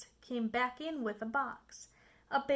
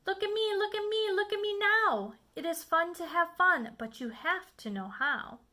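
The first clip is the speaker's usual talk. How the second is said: higher, louder showing-off; boastful cat; 5 semitones higher, 4 dB louder than usual. Acted. The Cat boasting to the children, higher and loud. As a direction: crow it like a proud showman.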